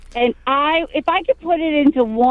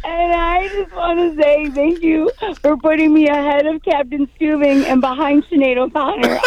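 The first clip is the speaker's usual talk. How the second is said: trying not to cry; 3 semitones higher than usual. Real, not acted. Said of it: "I'm gonna try not to cry".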